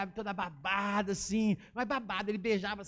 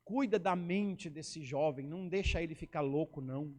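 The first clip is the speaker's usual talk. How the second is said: slow, low imitated pastoral prayer; lightly acted pastor praying in drawn-out phrases; solemn prayer; 4 semitones lower, slower than usual. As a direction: pray over him slowly, mock-solemn. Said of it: "Ele orou assim".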